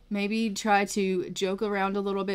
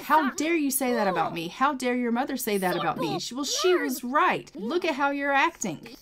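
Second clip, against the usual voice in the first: higher, indignant voicing of the grandmother; mock outrage; 5 semitones higher than usual. Grandmother to granddaughter, a hint of mock outrage. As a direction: play the offended grandmother snapping back. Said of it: "And she's like".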